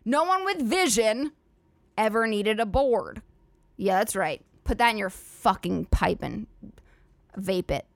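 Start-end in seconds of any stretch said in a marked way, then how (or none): 0.0-3.2 slow, hammed-up proclamation; mock grand declaration. Shown as a demonstration. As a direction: deliver it like a big motivational slogan. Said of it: "take that from the fucking top".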